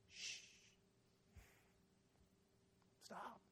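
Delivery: barely audible, soft shushing; gentle hushing. Retold or imitated. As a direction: soothe and silence the apology. Voicing Jesus hushing the penitent.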